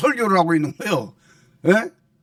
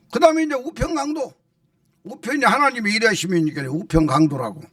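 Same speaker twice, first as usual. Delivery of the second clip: ordinary delivery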